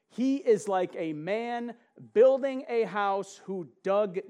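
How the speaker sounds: slow, emphatic Bible reading; scripture reading. Acted. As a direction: read it out like holy writ, slowly.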